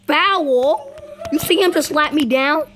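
high, loud protest; indignant shout. Real, not acted. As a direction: call the foul out loud. Protesting a foul.

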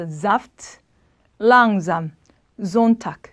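saft, langsam, Sonntag with S buzzed as Z; voiced S. Shown as a demonstration. Teacher models S before vowels, buzzed Z. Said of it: "즈 발음이에요".

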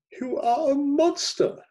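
high, loud, slow accusation; drawn-out, high-pitched cry of accusation; outraged exclamation. A narrator's reading. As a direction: exclaim it slowly at the top of the voice. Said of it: "exclaimed Lisa".

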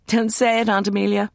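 a bright mock protest; teasing cry. A narrator's reading. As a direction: cut her off laughing. Teasing interruption at lunch.

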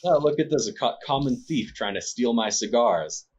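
high, loud mocking sneer. Nobleman sneering at the player as a common thief. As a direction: look down your nose and sneer. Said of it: "sneers at you".

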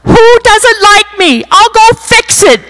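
mock a panicked urge to fix it; a hint of frantic self-doubt; anxious inner voice. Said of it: "I'm like".

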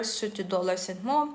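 ordinary talk

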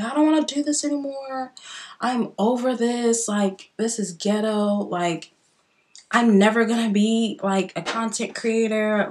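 imitating her own crying. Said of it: "I literally was boo-hooing".

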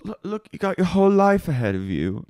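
high, mock-earnest advice; put-on boss. Boss advising young waitress on her life, put-on earnestness. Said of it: "she goes".

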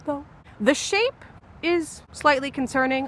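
loud gleeful victory; loud relieved triumph; triumphant. Real, not acted. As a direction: crow about the cone you finally got. Triumphant after getting the cone.

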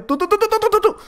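very high rapid tú taunt. Real, not acted. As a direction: squeak it at the enemy. Chasing opponent, high chant.

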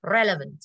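"Relevant" with a punched REL; clear E sound. Shown as a demonstration. Teacher repeats the word for the class, e sound in "Relevant". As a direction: open "Relevant" on a clear, stressed e. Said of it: "âm E".

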